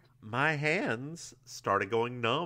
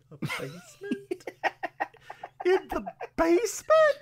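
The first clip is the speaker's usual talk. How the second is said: laughing. Real, not acted.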